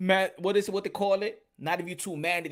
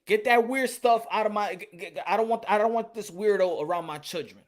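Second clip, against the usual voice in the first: firm demo; 3 semitones higher, 5 dB louder than usual. Shown as a demonstration. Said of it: "That's the way you gotta say it".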